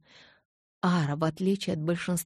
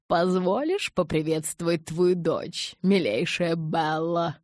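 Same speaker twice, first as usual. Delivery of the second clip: slow, sweet crooning elder; honeyed sing-song; 3 dB louder, slower than usual. Acted. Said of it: "пропел он медовым голосом".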